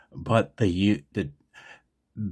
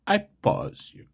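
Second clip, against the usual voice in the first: a playful, much higher redo of the joke; mock high retake. Shown as a demonstration. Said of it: "I can do better".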